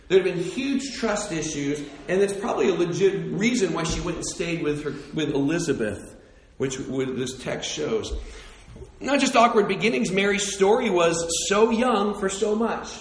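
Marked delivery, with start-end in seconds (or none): none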